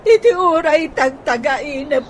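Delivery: loud, high-pitched cry of exasperation, slowing at the end; a wife who has run out of patience, loud and high; frustrated outburst. Acted. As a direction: let it all burst out at once. Wife's outburst of frustration at Manolo.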